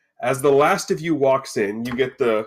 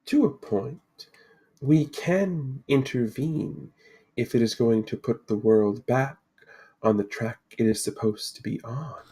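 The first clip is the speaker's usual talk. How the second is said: mysterious Lady of the Lake; 3 dB quieter than usual. Acted. Lady introduces herself to four adventurers, solemnly mysterious. Game master voices the Lady.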